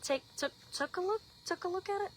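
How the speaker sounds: laughing at her own tongue-twist, viewers; self-correcting retry. Shown as a demonstration. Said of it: "I can't even talk these days".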